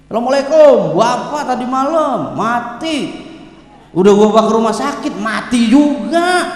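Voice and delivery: mock casual news-breaking, drawn-out endings; offhand death announcement. Rude child announcing father's death, drawn-out and offhand. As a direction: stretch the last words out carelessly. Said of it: "Ngabarin orang tua begitu".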